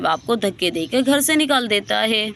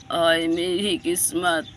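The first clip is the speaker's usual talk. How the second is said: put-on crying old man; 3 semitones lower than usual. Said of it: "अलादीनो रो रहा होता है".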